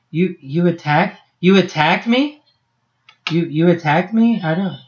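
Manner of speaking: halting, rising puzzled question. Acted. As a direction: stammer it in mild bewilderment. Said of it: "she looks at you kinda puzzled".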